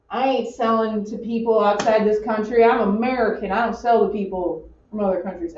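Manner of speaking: put-on light Southern accent; a touch of the American South, Southern accent. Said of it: "had to have a Southern accent".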